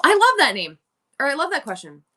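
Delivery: eager host answer; enthusiastic opener. Shown as a demonstration. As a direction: greet the question with delight. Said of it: "Yes, rehearsal mode".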